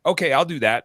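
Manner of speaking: imitating a kid mocking her parents. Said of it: "my seven-year-old mocks when".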